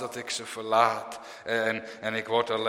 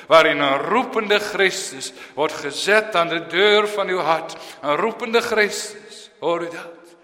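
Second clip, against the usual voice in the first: fervent preaching; 5 semitones higher, 6 dB louder than usual. Acted. Preacher proclaiming Christ's call, fervent and raised. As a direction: preach it out to the whole church.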